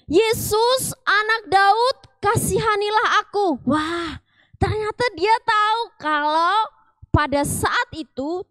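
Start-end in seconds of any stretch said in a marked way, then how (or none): 0.1-3.6 loud high pleading cry. A narrator's reading. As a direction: call out to Jesus from the roadside, loud and high. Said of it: "dia berteriak". (berteriak memohon dengan suara tinggi)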